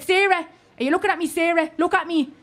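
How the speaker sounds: urgent pep talk. Retold or imitated.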